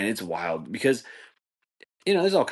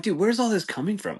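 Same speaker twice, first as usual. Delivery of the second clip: mock bewilderment; 14 semitones higher than usual. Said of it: "And I'm like".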